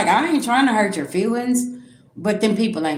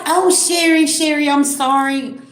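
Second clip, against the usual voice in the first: mock apology; 6 semitones higher than usual. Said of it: "She was like".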